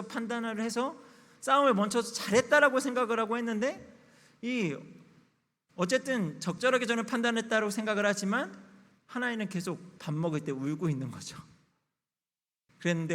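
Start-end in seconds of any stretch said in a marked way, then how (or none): none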